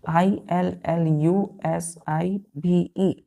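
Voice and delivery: letters spelled slowly; teacher spelling the word; spelling aloud. Shown as a demonstration.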